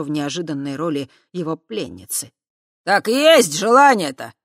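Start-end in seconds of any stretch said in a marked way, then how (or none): 2.8-4.3 loud, higher pressing; impatient repeat. Acted. Swamp spirit impatiently pressing Kava, loud. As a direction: press her for an answer. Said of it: "нетерпеливо повторил трясинник".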